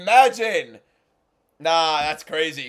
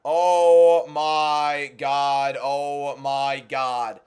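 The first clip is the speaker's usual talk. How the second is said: stunned disbelief; 4 semitones lower, much slower than usual. Real, not acted. Stunned by announcer's mistake.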